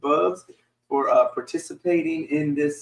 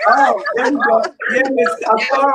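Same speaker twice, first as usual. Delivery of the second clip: laughing; 9 semitones higher, 7 dB louder than usual. Real, not acted. Laughing after echo fixed.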